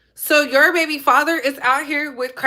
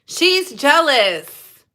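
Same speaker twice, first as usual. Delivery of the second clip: slow emphatic; much slower than usual. Real, not acted. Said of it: "She is jealous".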